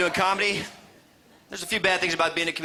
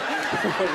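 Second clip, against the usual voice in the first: cow impression. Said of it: "my best cow impersonation".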